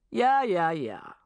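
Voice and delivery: catching fire with an idea; mounting excitement. Acted. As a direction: boss getting excited in the meeting. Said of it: "said Richard with mounting excitement".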